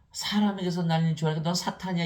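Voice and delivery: telling someone off, acted out; acted scolding. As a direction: rebuke sharply in a high, loud voice. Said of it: "예수님께서 베드로 야단치신".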